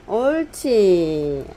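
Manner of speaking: slow drawn-out praise; praising a dog. Real, not acted. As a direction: stretch it out, pleased and gentle. Praising dog after it sits.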